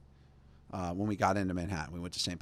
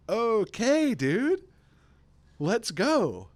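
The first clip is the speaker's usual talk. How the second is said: louder, higher preaching challenge; fiery priest; 11 semitones higher, 6 dB louder, much slower than usual. Retold or imitated. Priest challenging the New Yorkers, fiery preaching. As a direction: thunder it at the pews like a fiery priest.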